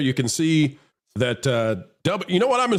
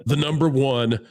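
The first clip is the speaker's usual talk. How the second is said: deliberate all-caps readout; 2 semitones lower than usual. Retold or imitated. Host reads Mark's text to the audience, deliberate all-caps readout. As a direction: spell out each punctuation mark deliberately. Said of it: "Mark says in all caps".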